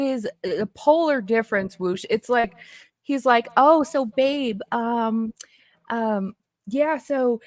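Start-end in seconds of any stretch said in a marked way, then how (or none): 3.6-7.4 imitating his soft talk. Ex mocks how he talks to her on the phone, hesitant and soft. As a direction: mimic him fumbling sweetly on the phone. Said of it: "that's how he literally talks".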